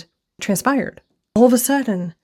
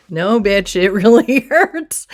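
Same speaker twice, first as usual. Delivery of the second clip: mock pained protest; 2 semitones higher, 5 dB louder, slower than usual. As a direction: play up the hurt with a laughing edge. Acting out pain answering back.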